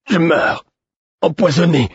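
high-pitched, melodramatic dying cry; theatrical declamation. A narrator's reading. Poisoned man announcing his death at table, theatrical declamation. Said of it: "déclama-t-il".

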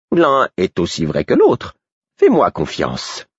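a lightly voiced riddling fool. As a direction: tease him slowly. Fool's cryptic answer.

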